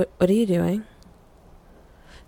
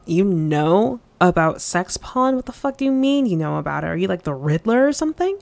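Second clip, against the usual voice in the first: baffled questioning, speeding up with rising ends; incredulous. Acted. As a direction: question it like it's absurd. Baffled by the listener's claim.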